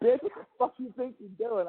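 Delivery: high-pitched mock-angry imitation; mimicking partner. Man playfully imitating partner's pissed-off line, high mock anger.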